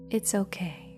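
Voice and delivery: gentle self-soothing words; soft reassurance. Shown as a demonstration. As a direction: comfort yourself quietly. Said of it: "by speaking the words".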